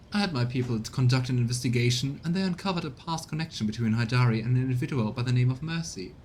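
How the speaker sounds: formal, scheming courtier reporting to his lord; lightly voiced courtier; a hint of a smug informant; courtier character voice. Reads game character dialogue.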